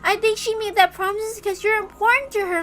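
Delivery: gentle stuffed toy. Acted. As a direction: coax a sad child. Stuffed animal Sakutaro comforts Maria.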